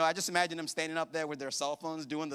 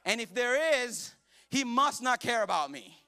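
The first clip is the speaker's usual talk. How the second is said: mock despair; 3 semitones higher, 4 dB louder than usual. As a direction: wail about the kid not napping. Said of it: "And you're like".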